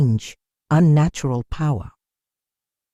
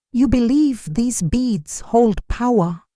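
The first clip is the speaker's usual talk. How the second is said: slow, higher-pitched sharp challenge; 7 semitones higher, slower than usual. A narrator's reading. Mysterious figure challenges Seifu about the beads, sharply. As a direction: cut through with a slow, pointed question. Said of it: "The figure's voice cuts through the silence, sharp as a spear".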